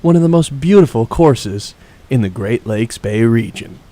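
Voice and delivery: hushed golf broadcast voice; lightly voiced TV golf announcer; Jim Nantz. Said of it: "How long should I do the golf voice for?".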